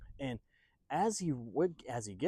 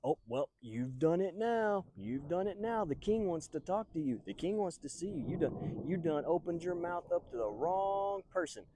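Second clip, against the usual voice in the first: drawn-out singsong warning, pitched up; ominous teasing; 5 semitones higher than usual. Acted. Everybody tells David he's done it now, teasing. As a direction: stretch out a mock you're-in-trouble warning.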